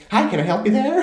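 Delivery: sweet, pointed politeness to scare them off; customer-service voice. Retold or imitated. Greeting a sample-grabbing customer.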